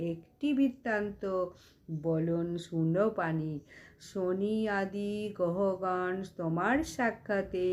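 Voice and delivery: measured sing-song scripture verse; devotional verse recitation. Real, not acted. Reciting Shiva and Parvati's dialogue for devotees, sing-song verse recitation. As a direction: recite in couplets, lifting each opening and settling at the end.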